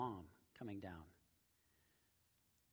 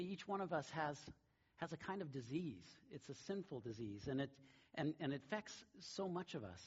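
normal talking voice

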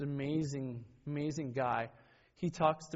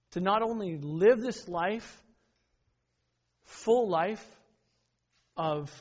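preaching at full force; 5 semitones higher, 5 dB louder than usual. Real, not acted. Preacher builds a list of Jesus' works.

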